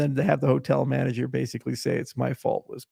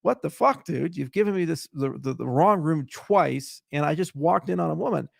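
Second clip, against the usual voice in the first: retold angry yelling; 3 semitones higher than usual. Guest complains to the front desk about wrong rooms, retold yelling. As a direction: mildly act out yelling at a clerk. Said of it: "I start yelling at the guy".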